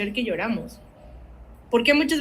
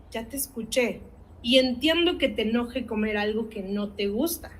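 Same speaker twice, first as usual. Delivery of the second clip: calm validating parent. Shown as a demonstration. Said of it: "voy a saber decirle a mi hijo".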